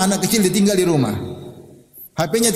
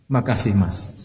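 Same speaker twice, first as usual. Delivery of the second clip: grateful wife; 6 semitones lower, slower than usual. Retold or imitated. Grateful wife thanking her husband.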